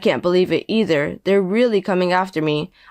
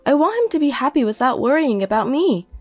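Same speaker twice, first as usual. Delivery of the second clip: higher woman's voice, calm and firm; mother, composed; 6 semitones higher than usual. Acted. Mother explaining why she won't lean on her son, composed. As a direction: refuse him without raising your voice.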